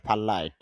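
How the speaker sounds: ফালাইট with an a sound after the p; breathy p, then a, in ফালাইট; correct pronunciation. Shown as a demonstration. Teacher models ফালাইট as the better form. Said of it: "আকারটা যুক্ত করলে বেশি শুদ্ধ".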